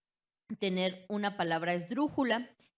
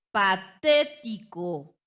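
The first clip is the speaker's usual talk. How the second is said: "Patético" lento, con TÉ fuerte y alargada; énfasis en la sílaba tónica; 8 dB louder, much slower than usual. Shown as a demonstration. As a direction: golpea el TÉ de "Patético", separando sílabas. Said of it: "antepenúltima". ("Patético" silabeado: pa-TÉ-ti-co)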